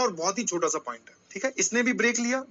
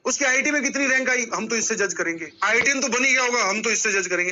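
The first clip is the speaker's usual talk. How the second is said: lightly voiced protesting student, pitched up at each new objection; imitating judgmental students; 4 semitones higher, 3 dB louder than usual. Teacher mimicking students who judge by rank, in mock protest. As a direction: mimic students pushing back, higher on each challenge. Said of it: "मुझे पता है तुम्हारी mentality क्या है, तुम क्या सोचते हो".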